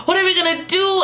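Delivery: high-pitched mock worry; panicking drunk guy. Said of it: "starts panicking".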